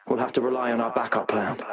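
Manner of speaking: hushed, secretive whisper. Acted. Scientist whispering to a colleague about the last resort. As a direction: breathe it like a secret. Scientist confides the backup plan.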